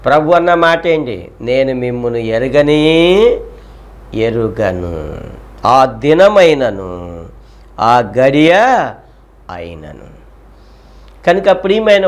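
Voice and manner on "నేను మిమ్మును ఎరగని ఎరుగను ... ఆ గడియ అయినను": lower, slow, grave verdict; lightly voiced stern Lord, slowly; solemn Lord. Preacher voicing the Lord rejecting the late virgins, slow and grave.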